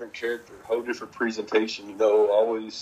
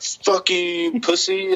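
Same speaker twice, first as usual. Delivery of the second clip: put-on higher, crackly-old grandma jeer at the wrestler; mock old lady heckler; 8 semitones higher, 4 dB louder, much slower than usual. Old lady fan cursing the wrestler, in a higher mock voice. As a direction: play the cranky granny cursing him out.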